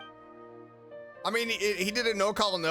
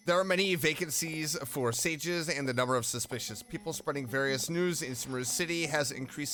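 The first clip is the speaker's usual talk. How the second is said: dutiful read-out, sinking softer at sentence ends; reading game text aloud; 3 semitones lower, 4 dB quieter than usual. Acted. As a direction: read it off like a posted notice.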